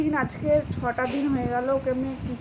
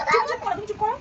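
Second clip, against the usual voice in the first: hushing; 8 semitones higher, faster than usual. Real, not acted. Hushing crying child.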